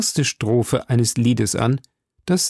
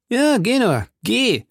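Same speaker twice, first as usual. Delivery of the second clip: much higher, shouted after the departing lord; calling after him; 11 semitones higher than usual. A narrator's reading. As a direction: fling it after the brother-in-law down the hall. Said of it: "rief sie ihrem Schwager nach". (laut hinterhergerufen, viel höher)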